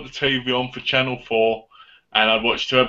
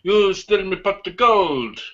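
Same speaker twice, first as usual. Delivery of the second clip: high, slow impish Irish leprechaun; 6 semitones higher, slower than usual. Retold or imitated. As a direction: squeal it like a greedy little leprechaun. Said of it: "He goes like this".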